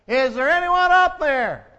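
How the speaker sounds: man hanging off a cliff calls upward in fear; calling out in fear. Acted. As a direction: call up to heaven, scared. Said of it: "he called out toward heaven".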